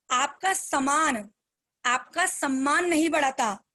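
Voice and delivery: very slow, a pause after "सामान"; spoken slowly. Shown as a demonstration. Speaker slowing down so her team follows the line. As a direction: break it up slowly for the listeners. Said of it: "थोड़ा सा धीरे धीरे बोलती हूँ".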